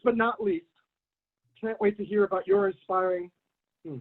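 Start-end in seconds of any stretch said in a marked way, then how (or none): 3.9-4.0 talking with something in mouth; mouth full. Real, not acted. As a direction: hair caught in the mouth. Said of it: "something in my mouth, piece of hair".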